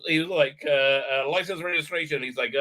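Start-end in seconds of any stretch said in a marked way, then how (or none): 1.3-2.2 put-on flat Israeli accent. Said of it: "put on his, uh, Israeli accent".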